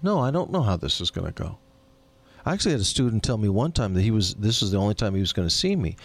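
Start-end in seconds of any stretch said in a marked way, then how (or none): 0.0-1.6 mock clueless innocence; playing dumb. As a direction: act stupid, feign not knowing. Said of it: "I just act stupid".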